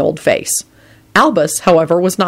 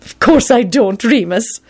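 put-on high, firm elderly lady; firm old woman; 6 semitones higher, slower than usual. A narrator's reading. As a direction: say it firmly. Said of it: "Minerva replied firmly".

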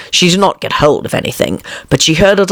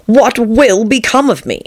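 anxious whisper; 7 semitones higher than usual. Acted. Alice fretting alone, whispered.

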